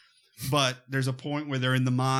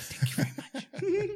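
high mock thanks; 4 dB quieter than usual. Joking sign-off.

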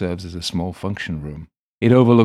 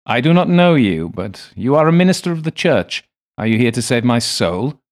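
earnest, pleading spirit, louder; John Dee's ghost begging the minister, higher and louder; beseeching old man; 6 semitones higher, 9 dB louder than usual. A narrator's reading. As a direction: beg him to save your soul. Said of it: "earnest and even beseeching".

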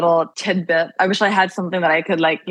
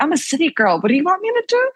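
mock helpless city girl; 10 semitones higher, faster than usual. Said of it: "I was like".

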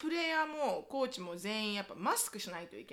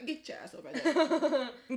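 very slow, drawn-out order, higher and louder; fierce mom order; 4 semitones higher, 4 dB louder, much slower than usual. Retold or imitated. Mom ordering her son out, drawn-out fierce scold. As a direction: stretch every word like a furious mom. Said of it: "すごい言い方で".

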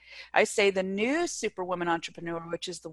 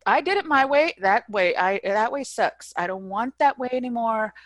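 loud, raised plea to God; desperate prayer; 3 semitones higher, 4 dB louder than usual. Retold or imitated. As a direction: cry out to God in despair. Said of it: "as I laid there crying".

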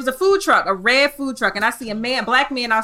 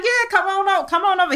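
lightly voiced South Carolina Gullah welcome, higher pitched; imitated Gullah-tinged invitation; light Gullah accent; 10 semitones higher, faster than usual. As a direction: wave them over with a hint of rural Gullah. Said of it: "accent that's kinda gives, like, Gullah".

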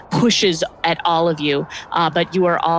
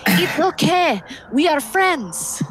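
much higher, slow and sincere; gentle snow leopard voice; 10 semitones higher, slower than usual. Acted. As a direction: reassure them like a kind cat-folk. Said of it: "she seems pretty genuine".

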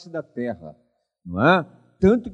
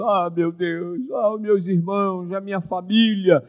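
mild lament; 5 semitones higher than usual. Retold or imitated. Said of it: "Ele deve ter dito".

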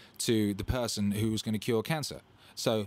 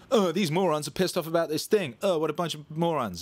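mock contempt; 7 semitones higher, 5 dB louder than usual. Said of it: "the other side goes".

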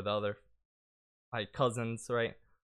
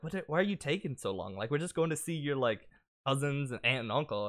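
impatient mom; 3 semitones higher than usual. Retold or imitated. Mom's impatient question, acted out.

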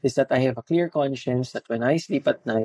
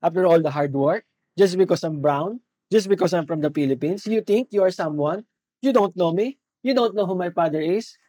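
mock indignant outburst; 3 semitones higher than usual. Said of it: "papalagan yung client".

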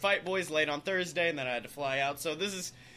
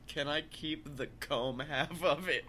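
soft, slow, sheepish ask; quiet request; 2 semitones lower, 7 dB quieter than usual. Retold or imitated. Asking the airport agent meekly for the comb, softly and slowly. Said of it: "I just quietly went".

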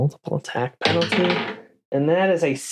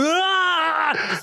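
raging wordless yell. Retold or imitated. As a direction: bellow it in a wordless fury. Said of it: "can't mutter any words 'cause he's raging".

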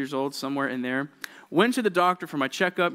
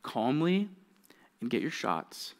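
coaxing mom; 7 dB quieter than usual. Retold or imitated. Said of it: "really good mom move".

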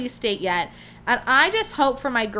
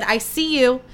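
louder, boastful announcement; cocky brand voice; 5 dB louder than usual. Retold or imitated. Host voicing Burger King answering fans, louder and boastful. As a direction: swagger as if the company is talking. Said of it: "They said".

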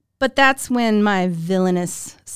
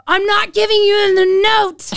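higher, louder mock defiant shout; defiant refusal; 8 semitones higher, 3 dB louder than usual. Girl refusing her teacher the note, retold as a mock shout. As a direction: dig your heels in and yell it.

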